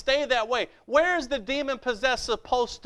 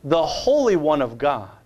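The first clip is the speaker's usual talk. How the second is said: lower, loud demon snarl; 8 semitones lower, 4 dB louder than usual. Acted. Preacher voicing the demon before Jesus, low and loud. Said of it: "This is the devil speaking".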